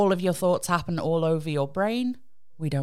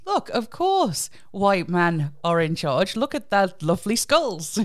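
pompous Victorian scientist; 3 semitones higher than usual. Retold or imitated. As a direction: play a smug old racist scholar. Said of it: "So it was basically like".

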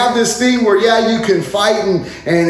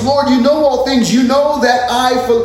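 frustrated Peter; 4 semitones higher than usual. Retold or imitated. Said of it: "that's where Peter gets frustrated".

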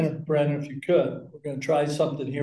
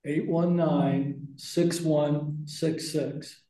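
slow read-back; much slower than usual. Real, not acted. Repeating number back to check.

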